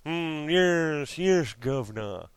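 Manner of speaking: mock British toff. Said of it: "watching way too much fucking Craig Ferguson".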